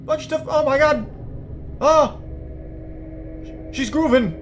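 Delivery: high, loud whooping excitement; shrieky, over-the-top hype; hyped-up yelling. Real, not acted. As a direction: cheer wildly at a dancer's moves. Hyped mock reaction to dancing figure.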